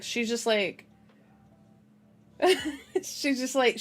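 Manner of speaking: starting a remark through a giggle; giggle, then try to explain; laughing. Real, not acted. Reader amused by the book's odd line, giggling.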